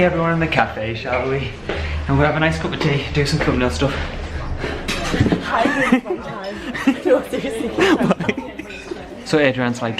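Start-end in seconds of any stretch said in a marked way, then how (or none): 4.0-9.2 bright amused laughter; real laugh. Real, not acted. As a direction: burst out laughing. Card machine mishap.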